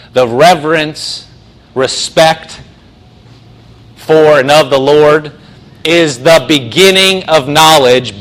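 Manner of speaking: slow, emphatic verse recitation; scripture reading. Real, not acted. Preacher explains fear of the Lord, slow emphatic scripture recitation. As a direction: recite it phrase by phrase with weighty pauses.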